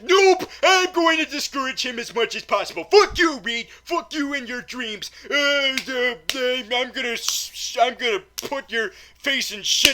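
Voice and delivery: loud, high, nasty teacher voice, spitting insults; bully the student at the top of your voice; cruel teacher. Retold or imitated. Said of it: "the teacher in this movie is like".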